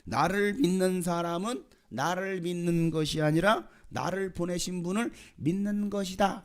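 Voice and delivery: high, slow, drawn-out proclamation; emphatic proclamation. Acted. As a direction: proclaim it so a crowd can hear. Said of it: "강조하시려고 큰 소리로 말씀하십니다".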